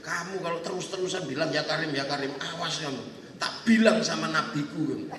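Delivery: mildly menacing low scolding; mock angry. Pilgrim threatening to report him to his Prophet, indignant. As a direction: lean hard on the threat to tattle. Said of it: "Sambil marah".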